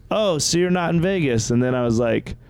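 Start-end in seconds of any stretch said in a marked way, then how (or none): 0.1-1.5 dumb cop voice. Retold or imitated. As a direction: mimic the confused deputy. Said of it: "And he goes".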